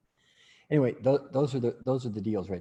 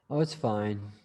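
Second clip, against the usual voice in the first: unenthused; 4 semitones lower, slower than usual. Shown as a demonstration. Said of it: "how you paint the words that you use".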